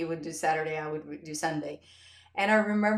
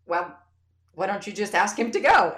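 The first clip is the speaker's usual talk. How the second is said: calm husband; 9 dB louder than usual. Retold or imitated.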